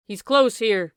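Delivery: crying out. A narrator's reading. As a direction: call it out. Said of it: "he cried".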